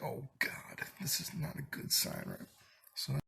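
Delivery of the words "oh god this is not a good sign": higher whispered aside. Retold or imitated. His inner reaction to the girl, worried whisper. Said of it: "And I was like".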